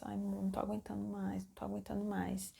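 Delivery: softly imitated weary plea; quiet, tired appeal, acted out lightly; worn-out pleading. Labouring woman telling her partner she can't cope, quiet weary plea. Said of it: "Ainda não estava chorando".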